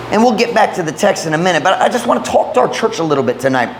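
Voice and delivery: talking around a sore tongue; slightly slurred from a sore tongue. Real, not acted. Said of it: "I'm sorry if I'm talking funny".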